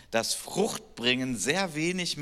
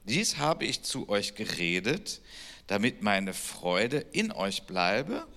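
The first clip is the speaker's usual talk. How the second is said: scripture reading; 2 semitones lower than usual. Acted. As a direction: read the passage aloud like a reverent lesson. Reads John 15 aloud.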